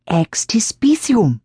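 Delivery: put-on slow, eerie old crone; eerie old woman. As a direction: draw the word out like a spell. Old woman repeats strange word.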